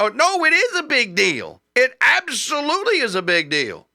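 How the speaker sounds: high, insistent, stress on "is" and "absolutely"; indignant rebuttal to the dismissers; emphatic rebuttal. Real, not acted.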